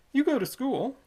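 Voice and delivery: put-on high, loud old toll keeper; sly old toll keeper coaxing the boy; Squids' voice. Old toll keeper luring a boy in, high and loud.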